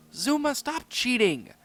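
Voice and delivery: high, loud, slow accusation; an angry pup accusing a teammate. Acted. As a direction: yell at him for cheating. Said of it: "raising the voice".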